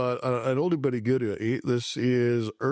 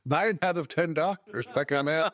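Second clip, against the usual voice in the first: bright, higher cheerful ad announcer pitch; chipper 1950s ad; 5 semitones higher than usual. Pretend. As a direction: sell it like a vintage TV commercial. Mock cereal-box ad pitch.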